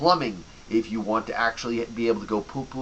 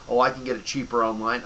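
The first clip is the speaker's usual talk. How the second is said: mock customer; faster than usual. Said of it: "And also the whole".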